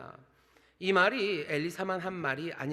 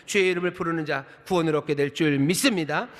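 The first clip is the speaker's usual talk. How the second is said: louder, rising proclamation of faith; preaching climax; 9 dB louder than usual. Real, not acted. Preacher crying out to the congregation, loud and rising. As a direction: call it out to the whole church.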